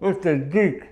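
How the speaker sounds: high squeaky celebutante voice; Paris Hilton voice. Retold or imitated. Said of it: "His impression of Paris Hilton singing a song".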